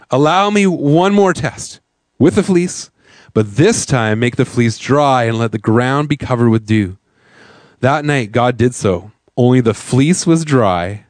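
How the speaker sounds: slow, measured scripture reading. Real, not acted. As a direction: read it out slowly, pausing between phrases. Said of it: "read this a little slower for you".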